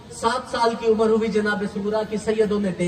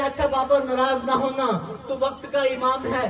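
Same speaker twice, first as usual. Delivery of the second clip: crying; 3 semitones higher than usual. Acted. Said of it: "रो के कहती है".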